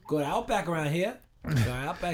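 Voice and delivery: put-on playful Aussie accent; Australian accent. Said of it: "Australian accents are so fun".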